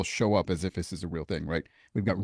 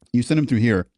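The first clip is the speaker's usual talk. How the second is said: retold scolding; 3 semitones higher, 7 dB louder than usual. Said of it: "make me, uh, feel that mistake".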